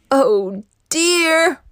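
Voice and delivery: worried cartoon voice. A narrator's reading. Trapped by lava.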